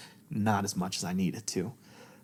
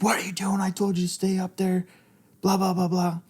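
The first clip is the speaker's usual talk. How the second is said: harsh scolding whisper, much higher; retold angry outburst; 9 semitones higher, 4 dB louder than usual. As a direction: reenact snapping at a child in a loud hiss. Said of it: "I yelled at my daughter".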